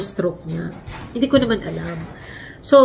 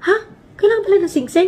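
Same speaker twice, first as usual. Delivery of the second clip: surprised; 9 semitones higher than usual. Retold or imitated. Couple realising rings needed.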